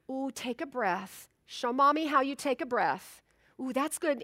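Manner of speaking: put-on soft, gentle coaxing to a hurt child; calm the little one down quietly; soothing mother. Mother coaxing hurt toddler to breathe, softly soothing. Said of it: "I would say".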